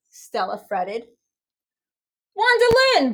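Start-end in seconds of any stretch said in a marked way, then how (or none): 2.3-3.1 high, loud bark. A narrator's reading. Officer Tim barking at the diner owner. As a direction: bark her name like an order. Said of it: "barked Officer Tim".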